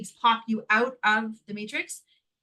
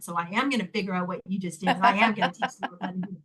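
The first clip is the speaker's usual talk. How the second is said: determined vow; 3 semitones lower, faster than usual. Retold or imitated. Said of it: "'cause I said".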